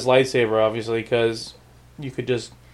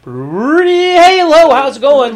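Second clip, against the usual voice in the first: much higher and louder, a bright chipper robot hello; cheery droid greeting; 12 semitones higher, 9 dB louder than usual. Retold or imitated. Robot back online greets its friend in a high chirpy voice. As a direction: pop up sunny and oblivious, like nothing happened.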